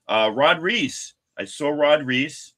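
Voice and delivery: excited. Real, not acted. Excitedly naming signing artist.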